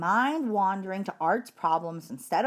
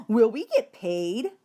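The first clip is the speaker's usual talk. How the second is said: eager pupil; 2 semitones higher, 3 dB louder, slower than usual. Acted. Eager pupil asks about pay.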